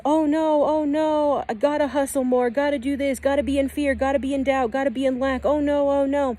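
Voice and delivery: high, anxious "oh no" voice of the fearful self; panicky ego self. Pretend. Guide voices her fearful ego self to viewers, high and anxious. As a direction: play the worried ego spiralling into fear. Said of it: "One version of you is".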